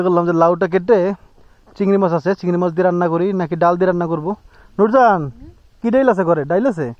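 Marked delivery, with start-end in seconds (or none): 4.8-6.9 loud call into the house; asking his wife about dal from outside. Real, not acted. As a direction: raise the voice to reach someone indoors. Calling to Nurjan inside house.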